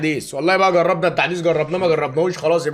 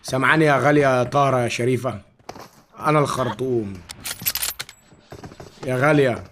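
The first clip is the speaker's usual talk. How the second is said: persona voice; 3 semitones lower than usual. Acted. Khartoum persona flirting in-game.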